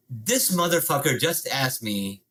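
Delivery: low incredulous inner monologue; slow-motion thought. Retold or imitated. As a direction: drop low and let the thought sink in. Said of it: "in that same slow motion thought process".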